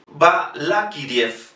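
Balakiriev said slowly, with a clear B; Russian pronunciation. Shown as a demonstration. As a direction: sound out Balakiriev with "ye" in the last syllable. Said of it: "no digan Balakiriev con la V".

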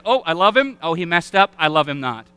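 lightly voiced daisy-plucking lover, swinging up and down; mock a fickle sweetheart plucking petals; fickle petal-plucking God. Preacher mocking a fickle God who loves, loves not. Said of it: "this impression of God that he stands up with that proverbial flower".

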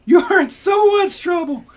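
very high, loud scolding; mom threatening. Retold or imitated. Mother scolding her daughter, very high and loud. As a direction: threaten the kid loudly.

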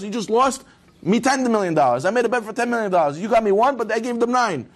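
high-pitched, aggrieved telling-off; exasperated scolding. Acted. King reproaching his minister over the bet, exasperated scolding. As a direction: pile up the reproach, pitched well up.

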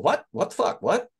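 mock gasped disbelief, half breathless; stunned hearing the role news, a breathy What the fuck. Imitating himself hearing he's going to Morocco, in breathy disbelief.

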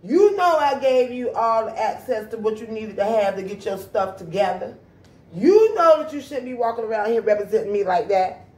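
loud, scolding voice of God. Retold or imitated. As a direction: scold her like a disappointed God. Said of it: "he would be like".

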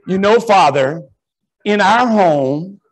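lightly voiced prim Valley lady, slow; a hint of a prissy Valley mom lecturing. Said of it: "she's probably from the Valley".

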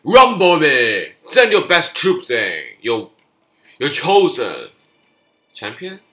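loud, high, slow challenge to fight; booming taunt. Real, not acted. Gamer daring the enemy to send troops, booming taunt. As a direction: roar the dare at the enemy.

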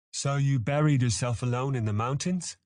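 high, rising curious question. A narrator's reading. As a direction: wonder aloud with real curiosity. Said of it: "echoing Cam's curiosity out loud".

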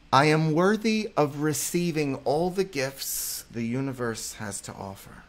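affirmation read. Shown as a demonstration. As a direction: state it as a firm truth to the audience. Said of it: "Repeat with me, guys".

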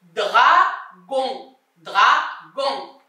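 "dragon" split into dra and gon; syllable by syllable. Shown as a demonstration. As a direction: pause between the syllables of "dragon". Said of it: "la syllabe dans laquelle tu entends".

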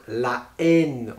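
"la haine" slowly, la kept apart from haine; "la haine" as two slow words, la, èn; aspirated H, no elision. Shown as a demonstration. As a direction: separate la from èn in "la haine". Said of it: "en H aspiré".

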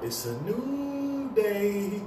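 slow, high, drawn-out chant; drawn-out call. Shown as a demonstration. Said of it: "let me just hear you scream and shout".

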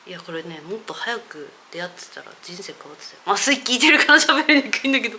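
numb lips after anesthetic; numb from anesthesia. Real, not acted. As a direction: talk through a numbed mouth.

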